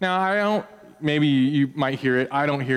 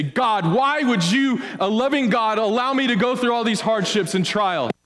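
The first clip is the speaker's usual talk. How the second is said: mock complaint to God; 8 semitones higher than usual. Voices a complaining believer.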